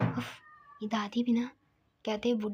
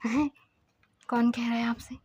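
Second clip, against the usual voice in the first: soft, half-whispered telling; hushed storytelling; 6 dB quieter than usual. Acted. Narrator telling the grandmother's questioning of Siddharth, softly hushed.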